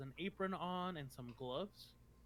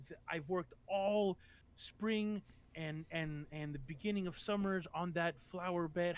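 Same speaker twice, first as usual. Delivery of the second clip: loud, scolding rant, louder on the ruined flowers; furious yelling; 2 semitones higher, 3 dB louder than usual. Acted. Nurse-like woman yelling at the hunched man about her flowers, angrily. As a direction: berate him at full volume over the flower bed. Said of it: "in a very, very loud kind of voice".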